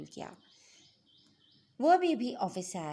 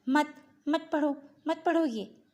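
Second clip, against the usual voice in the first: higher, louder, insistent plea; screamed protest; 7 semitones higher, 7 dB louder than usual. A narrator's reading. Possessed girl to the praying elder, loud high protest. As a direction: cry out to stop him, short of a full scream. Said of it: "वो अब बाकायदा चीखने लगी थी".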